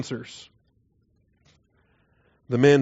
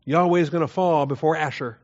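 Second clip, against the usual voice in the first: lightly acted confident invader; boastful Assyria; 5 semitones higher than usual. Assyria claiming Yahweh will fall, boastful. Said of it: "Assyria says".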